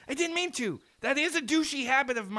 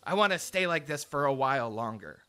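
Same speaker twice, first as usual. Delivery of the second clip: sinister villain voice; 8 semitones lower, 4 dB quieter than usual. Acted. Villain reveal, lower voice.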